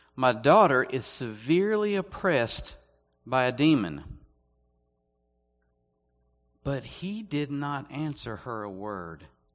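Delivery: slow, solemn reading with long pauses. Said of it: "I'm gonna read it slow".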